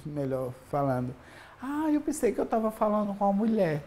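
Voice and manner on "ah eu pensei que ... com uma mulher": interlocutor ao telefone, levemente encenado, mais agudo e rápido; imitando quem ligava. Retold or imitated. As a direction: imite de leve a reação de quem ligou, em tom mais alto e apressado. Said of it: "porque as pessoas percebiam". (imitação leve de interlocutor ao telefone, em português: "voz de quem se enganou")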